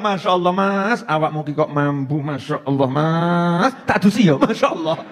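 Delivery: a hint of a fussing wife, drawn out; wife fussing at her husband coming home; nagging wife. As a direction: lightly play the complaining wife. Wife voiced greeting her husband.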